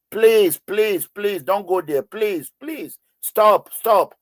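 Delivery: high, pleading please please stop; begging. Retold or imitated. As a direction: reenact the desperate plea to stop. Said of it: "I was begging".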